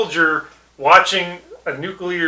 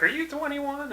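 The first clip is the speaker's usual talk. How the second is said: put-on high, soft squeaky-kid voice; high-pitched mock youngster; young casino worker; 12 semitones higher, 10 dB quieter than usual. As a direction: imitate a young employee, pitched way up.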